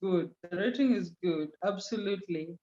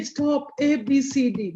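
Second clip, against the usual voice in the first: firm, stern command, pitched a bit higher; mean business, no joking now; serious, meaning business; 4 semitones higher than usual. Shown as a demonstration. Teacher showing the class a serious reprimand, firm and stern. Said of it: "If I really meant business ... my intonation will be totally different".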